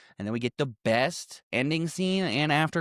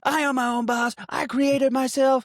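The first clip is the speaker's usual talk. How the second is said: pompous boast; 12 semitones higher, 4 dB louder than usual. Retold or imitated. Quoting the arrogant rich character.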